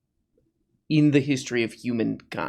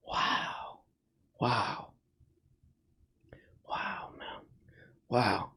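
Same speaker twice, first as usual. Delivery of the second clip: hushed, breathy mock-tearful wow, much softer; mock weeping; 3 semitones lower, 13 dB quieter, much slower than usual. Mocking a sappy comment, fake-tearful hushed wow. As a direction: pretend to be choked up. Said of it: "I'm welling up again".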